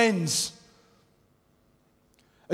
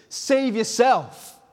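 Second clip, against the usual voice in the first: mocking crowd; 5 semitones higher, slower than usual.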